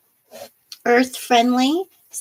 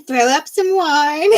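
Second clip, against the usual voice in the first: slower, laughing through the words; 4 semitones higher than usual. Real, not acted. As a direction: chuckle the phrase out. Laughing at own joke.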